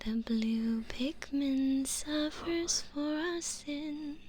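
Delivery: slow, hushed mock-reverent preaching; mock sermon. Hamming up worship of the blue Pikmin for chat, slow mock sermon. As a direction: intone it like a joke prayer.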